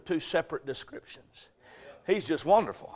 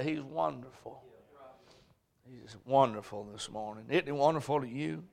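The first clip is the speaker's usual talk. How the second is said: hushed preaching; 4 semitones lower, 8 dB quieter than usual. Acted. Preacher drops to hush.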